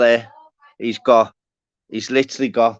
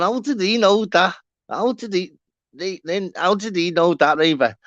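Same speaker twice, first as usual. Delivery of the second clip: higher, amazed mock voice of a friend in bits laughing; imitating an amazed mate; 8 semitones higher than usual. Streamer mimics a laughing viewer, high amazed mock. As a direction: playfully voice him gasping how did he know.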